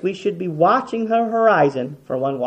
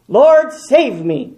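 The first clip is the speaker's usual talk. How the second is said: pleading cry; 6 semitones higher, 6 dB louder, much slower than usual. Pretend. Crying out to God.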